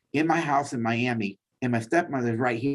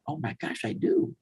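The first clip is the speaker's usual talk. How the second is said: sudden realization; 2 semitones higher, 4 dB quieter than usual. Retold or imitated. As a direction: catch yourself in surprise. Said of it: "I thought".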